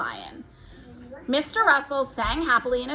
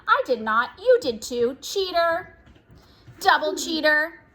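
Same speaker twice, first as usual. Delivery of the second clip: put-on higher, louder bickering child; whiny sibling demanding her sock; squabbling child; 5 semitones higher, 4 dB louder, slower than usual. Twins arguing on the stairs.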